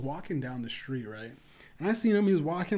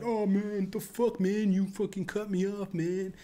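high, whiny plea, a touch mocking; whiny pleading guy; 6 semitones higher, slower than usual. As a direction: imitate the weak guy backing down, higher. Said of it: "And he sounded like".

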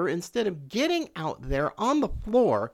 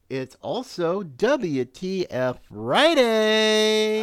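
excited announcement; 6 dB louder, much slower than usual. Acted. Host announcing special show day.

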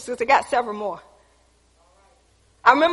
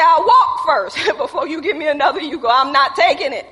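laughing refusal; 2 semitones higher, 4 dB louder than usual. Retold or imitated. Refusing another Yugo, laughing.

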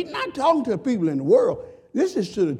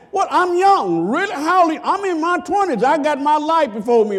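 put-on higher, breezy young voice; mock young man; 7 semitones higher than usual. Preacher voices a careless young man in his twenties, higher. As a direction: toss it off like a careless youth.

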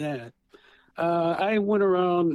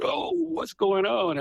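put-on dramatized child self; 5 semitones higher, slower than usual. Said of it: "my dramatizations".

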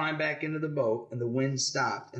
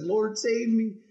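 raised, drawn-out cry for help; mock scared plea; 8 semitones higher, 3 dB louder, much slower than usual. Parent retelling Peter sinking, mildly acted scared cry. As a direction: lightly act out a plea, stretched and higher.

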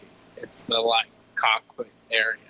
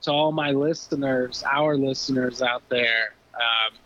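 harsh voice. Real, not acted. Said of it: "if my voice sound harsh or whatever".

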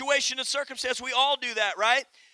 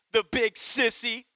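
shaky little voice. Acted. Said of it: "her shaky little voice".

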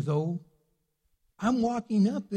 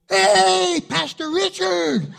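surprised greeting; 13 semitones higher, 9 dB louder, much slower than usual. Retold or imitated. Father recognizes pastor, calls out.

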